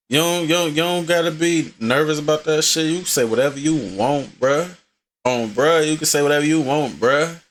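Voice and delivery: light Atlanta accent. Shown as a demonstration. Telling Yuri not to be nervous, Atlanta accent. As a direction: lay on a casual Atlanta accent. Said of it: "How's my Atlanta accent?".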